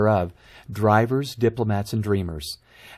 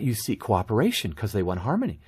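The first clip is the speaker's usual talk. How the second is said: ordinary talk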